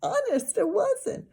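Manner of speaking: high, slow, tearful protest; crying girl. A narrator's reading. Girl crying to the boys that it wasn't her fault. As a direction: plead through tears. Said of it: "Sheila cried".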